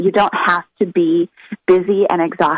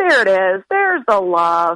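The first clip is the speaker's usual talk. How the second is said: put-on big silly kid voice, slower. Retelling what a four-year-old says during a hug, in a big funny voice. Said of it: "this big funny voice".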